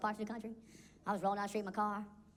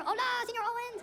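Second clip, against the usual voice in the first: put-on Hispanic kid voice; 13 semitones higher than usual. Hispanic kid at roll call.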